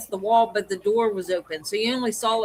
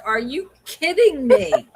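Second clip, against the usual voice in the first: incredulous retort; 6 semitones higher, 5 dB louder, slower than usual. Retold or imitated.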